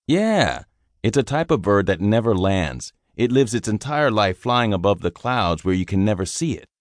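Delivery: string the rookie along with a straight face; gruff sergeant. Acted. Sergeant telling the private a made-up bird story, deadpan. Sergeant spins tall tale.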